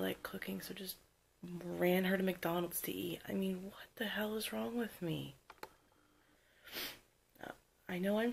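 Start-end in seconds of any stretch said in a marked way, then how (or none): 3.3-5.3 after crying. Real, not acted. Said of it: "so frustrated with myself".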